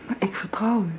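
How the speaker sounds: zachte, innige fluistering; fluisterend. Acted. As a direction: fluister het teder. Intiem moment van vertrouwen.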